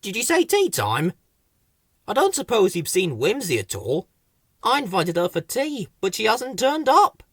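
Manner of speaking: lifted storybook creature voice; Whoops. A narrator's reading. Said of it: "Whoops popped up".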